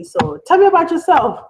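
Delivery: counsellor's question. Retold or imitated. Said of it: "the guy asked me".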